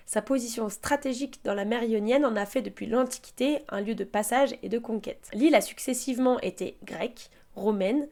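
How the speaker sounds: calm, even travelogue read; voiceover narration. Acted.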